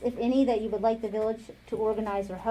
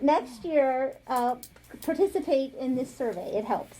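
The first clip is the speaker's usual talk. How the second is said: lightly voiced pleading mom; a hint of mom voice, urging; 3 semitones higher than usual. Council member urging residents to join next year's survey, light mom voice. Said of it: "I'm gonna give you my mom voice".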